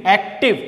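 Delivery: "অ্যাক্টিভ" divided into two beats; split into syllables. Shown as a demonstration. Teacher contrasting it with an unbreakable word, "অ্যাক্টিভ" split in syllables. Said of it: "ভাঙা যায় না। But অ্যাক্টিভ".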